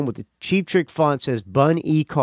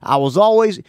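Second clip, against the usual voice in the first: Bunny voice; 6 semitones higher, 3 dB louder than usual. Shown as a demonstration. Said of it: "doing the Bunny voice".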